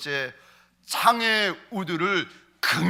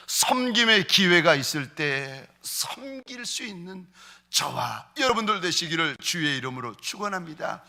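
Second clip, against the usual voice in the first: usual speaking voice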